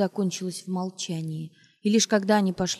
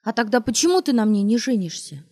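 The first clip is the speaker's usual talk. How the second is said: ringing cry; 3 semitones higher, 4 dB louder than usual. Acted. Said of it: "звонко выкрикнула она".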